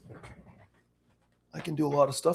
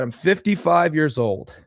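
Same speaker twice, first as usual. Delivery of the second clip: put-on slow, raised old man voice; older man voice; 4 semitones higher, 3 dB louder than usual. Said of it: "my older man accent".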